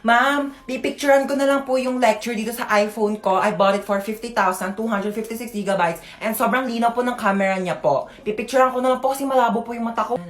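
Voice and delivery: lightly voiced bratty conyo student; conyo rich kid. Bratty student bragging to the teacher about her phone. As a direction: brag like a spoiled rich girl.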